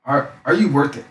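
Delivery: high sliding mock-sceptical "ooh", then hesitant doubt; doubtful client. Client hearing his coaching prices, high mock-doubtful hesitation. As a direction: imitate a wary client balking at the price. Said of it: "they're like".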